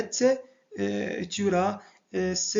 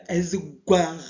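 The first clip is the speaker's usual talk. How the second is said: "Ezgouar" drawn out slowly; slow word modelling; 5 dB louder than usual. Shown as a demonstration. Teacher giving the word for red, slow careful "Ezgouar". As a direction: stretch "Ezgouar" out for the learners.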